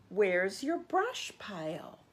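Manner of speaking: light, breathy little chipmunk voice; a small creature's airy question; squeaked. Acted. Chipmunk asks Possum about his home, light squeaky voice. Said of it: "she squeaked".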